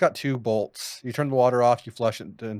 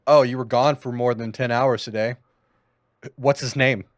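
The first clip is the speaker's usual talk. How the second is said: jealous talking toilet; 3 dB louder than usual. Pretend. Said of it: "that toilet's getting, like".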